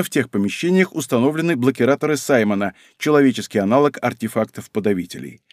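plain reading voice

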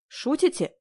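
high astonished question; surprised gasp of a question; amazed. A narrator's reading. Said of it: "изумилась я".

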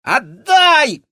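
very high, loud squeal; snatch with a squeal; squealing rat. A narrator's reading. Rat man lunging at the girl, loud squeal. Felix grabs.

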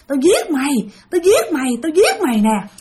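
high-pitched menacing threat, acted in retelling; mock murderous threat. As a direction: repeat it like someone possessed, mildly hammed-up. Possessed woman attacks while strangling.

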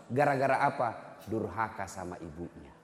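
ordinary talk

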